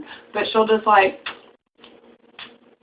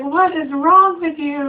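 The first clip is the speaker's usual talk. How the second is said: lightly voiced husband, higher and slow; mock baffled husband; 8 semitones higher, 3 dB louder than usual. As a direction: ask it like a puzzled husband, drawn out. Husband's retold baffled question.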